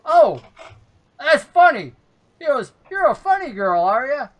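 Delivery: high, loud, chirpy halfling. Acted. GM voicing the halfling flirting with the tall player. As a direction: pitch it up, cocky little flirt. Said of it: "The halfling says".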